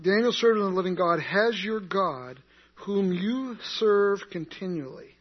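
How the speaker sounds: a worried king calling into the den; anguished call. Retold or imitated. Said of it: "and then he says".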